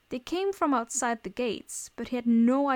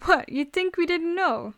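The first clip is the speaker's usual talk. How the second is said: high, louder incredulous question; mocking amusement, pitched up; amused scoffing; 7 semitones higher, 5 dB louder than usual. A narrator's reading. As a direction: laugh at them as you ask. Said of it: "Wilbur laughed".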